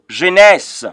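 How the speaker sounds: jeunesse said "zheh-NESS"; French pronunciation. Shown as a demonstration. Teacher models a Bible book for beginners, jeunesse in French "zheh-NESS". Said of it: "pronounce that middle row".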